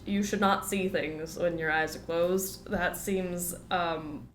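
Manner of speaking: lightly done Southern twang, stuffed up; put-on Southern accent. Streamer chatting over the game, put-on Southern accent. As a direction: hold a put-on Southern accent through a head cold. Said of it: "get out of this accent".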